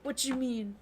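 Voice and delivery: high, baffled demand; high confused what; confused outburst. Real, not acted. Confused reaction to character.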